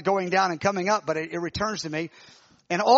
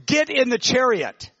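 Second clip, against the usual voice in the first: firm, slow order, a touch louder; strong command; 5 semitones higher, 4 dB louder than usual. Retold or imitated. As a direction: command it with strength, no tenderness. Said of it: "it had command, it had strength".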